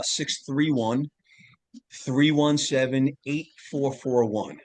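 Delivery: slow, careful number read-out; phone number read slowly for listeners; slow dictation. Shown as a demonstration. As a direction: spell out each digit so they can write it down. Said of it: "you can text me".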